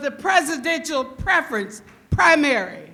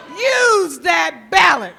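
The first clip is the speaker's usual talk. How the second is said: emphatic rally line; 3 semitones higher, 5 dB louder than usual. Real, not acted. Crowd answer prompt.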